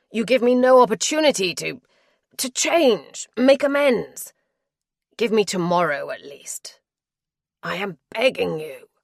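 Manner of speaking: he begs her to stay, pressing hard; begging husband. Acted.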